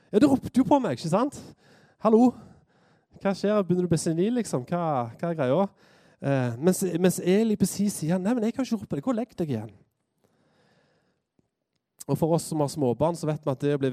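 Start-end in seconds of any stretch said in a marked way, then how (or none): 0.1-5.7 acted fed-up disbelief; exasperated. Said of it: "blir litt sånn oppgitt". 8.2-9.7 mildly acted weary protest; lightly voiced exasperated Eli. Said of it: "blir litt sånn oppgitt".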